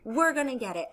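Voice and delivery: lightly voiced persistent storybook frog; Frog character voice. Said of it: "Frog said".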